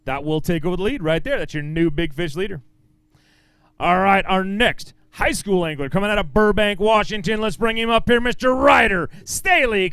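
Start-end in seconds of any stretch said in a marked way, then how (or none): 3.8-9.9 announcer intro. Acted. Emcee introducing the next pro to the crowd, booming announcer style. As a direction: sell the name like a boxing intro.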